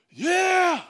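high, loud whoop of joy; thrilled yell. Retold or imitated. Son whooping halfway down the slide, excited yell. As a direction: let it rip like a kid flying down a slide.

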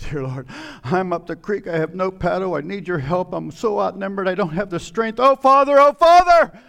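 plea building to a high shout; desperate prayer. Acted. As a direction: cry out to God for rescue, rising to a yell. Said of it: "all that fancy word just said".

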